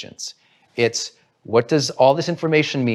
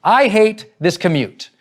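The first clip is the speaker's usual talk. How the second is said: mock freak-out; 4 semitones higher, 4 dB louder, slower than usual. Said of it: "They completely freak out".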